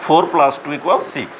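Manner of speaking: four plus two equals six spelled out slowly, word by word; slow English read-out. Shown as a demonstration. Teacher modelling the English reading for new pupils, slow. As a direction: read it out like a dictation for beginners. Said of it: "আমরা পড়ার সময়ও আমরা ইংলিশেই পড়বো".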